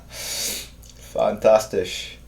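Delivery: Fantastisch stretched very slow, falling; slow, relishing German praise; drawn-out praise. Acted. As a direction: savor every sound of Fantastisch. Savoring a German word.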